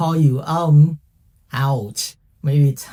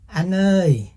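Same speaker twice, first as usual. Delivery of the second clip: calling out; 4 semitones higher than usual. Retold or imitated. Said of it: "So they go like".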